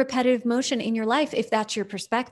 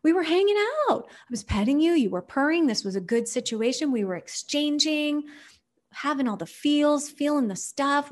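baffled owner; 5 semitones higher than usual. Retold or imitated. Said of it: "it's like".

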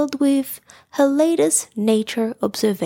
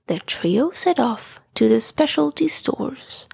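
whispered story narration. A narrator's reading. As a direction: whisper the story like tucking a child in.

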